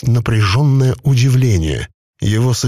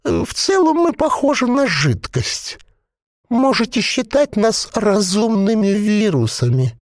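a possessed corpse bubbling out its words; gurgling voice; 11 semitones higher than usual. A narrator's reading. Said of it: "бульканье маслянистого варева".

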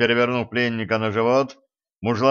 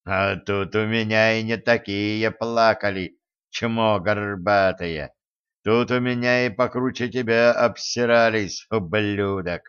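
excited growl. Acted. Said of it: "возбуждённо урча".

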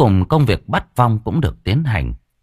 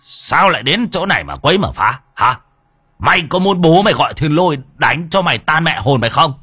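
higher, commanding scold; stern threat; 5 semitones higher than usual. Acted. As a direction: bark at the spirit like a master exorcist. Exorcist threatens the ghost.

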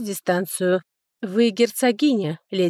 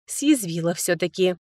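ordinary delivery

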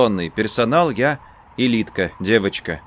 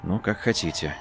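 much softer, muffled reply; 6 semitones lower, 10 dB quieter than usual. A narrator's reading. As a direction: let it drop dully. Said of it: "глухо добавил я". (глухо)

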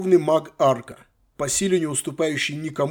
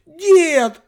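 much higher, loud squeal; indignant shriek; 11 dB louder than usual. Acted. Granddaughter outraged at her grandfather's punishment, loud shriek. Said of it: "возмущённо заверещала".

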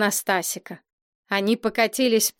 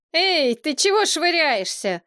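startled protest; 7 semitones higher than usual. A narrator's reading. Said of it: "первым опомнился Стасик".

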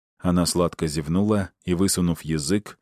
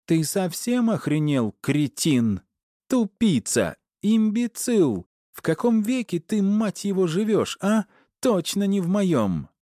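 high screeching rage at her husband; wife storming in, yelling at her husband in a high furious voice; 13 semitones higher than usual. A narrator's reading. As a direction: scream it down at him.

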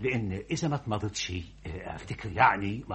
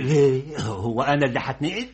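alarmed; 3 semitones higher, 7 dB louder than usual. Acted. Clerk alarmed at transfer hint.

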